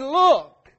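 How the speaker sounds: loud, punched exclamation; retold crying out. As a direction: imitate calling out to the crowd. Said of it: "he cried out and said".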